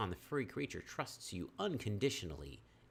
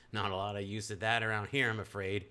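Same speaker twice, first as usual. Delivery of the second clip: put-on New Mexican accent; 5 dB louder than usual. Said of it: "that's my New Mexican accent".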